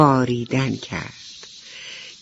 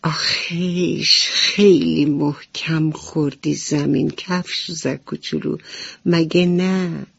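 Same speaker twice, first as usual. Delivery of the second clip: slow, sighing relief, lightly voiced; a sigh of relief for a friend; relieved butterfly voice. Butterfly comforting her fallen friend, gently relieved.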